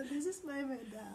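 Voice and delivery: introducing her madam, laughing while crying; laughing through tears. Real, not acted. Presenting her madam to the camera, teary laugh. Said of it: "Don't cry".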